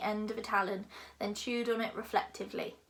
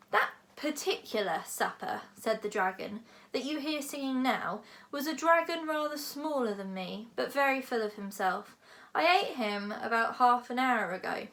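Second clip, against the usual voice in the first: lightly voiced lofty dragon, lecturing; a big dragon musing grandly. Dragon speaks.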